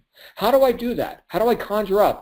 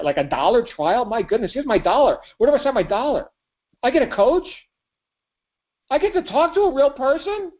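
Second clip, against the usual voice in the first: excited prospect; 3 semitones higher than usual. Retold or imitated. People hearing conviction, begging eagerly to buy in. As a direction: imitate a customer thrilled to sign up. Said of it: "they're like".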